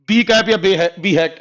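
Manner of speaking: "बी कैप" said clearly as "bee cap", then "बी हैट" as "bee hat"; reading the symbol aloud. Shown as a demonstration. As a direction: teach how "बी कैप" is read out. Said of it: "ऐसे पढ़ा जाता है". ("बी कैप" को "बी कैप" और "बी हैट" साफ़ बोलकर बताना)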